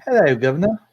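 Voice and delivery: hammed-up British greeting; British accent. Little laser bird greeting the shopkeeper, mock British accent. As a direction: put on a cheeky British accent. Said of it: "that accent is not soothing".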